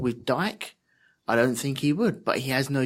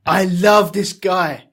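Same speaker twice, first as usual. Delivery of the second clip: gushing delight; 5 semitones higher, 7 dB louder, slower than usual. Real, not acted. Gushing over a singer.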